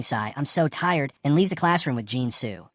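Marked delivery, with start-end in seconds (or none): 0.0-1.1 slow, sagging whine; lazy complaint. Acted. Dong getting up from his desk, lazily complaining. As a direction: drag the words like you can barely stand. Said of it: "Dong lazily stands up, complaining".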